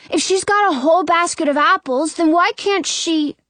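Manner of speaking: put-on high, indignant kid's voice; argue, then break off; protesting little boy. A narrator's reading. Brother peeking into the basket, protesting.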